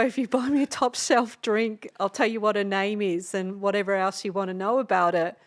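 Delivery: lightly put-on Australian accent; Aussie accent. Offering a rapper her friend's details for a drink, Aussie accent. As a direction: play up the Aussie accent a little. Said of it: "I did this, like, Aussie accent to him".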